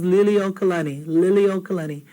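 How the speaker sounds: Liliokalani with the u dropped; wrong Liliokalani. Retold or imitated. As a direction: common mistaken Liliokalani. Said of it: "Everyone says".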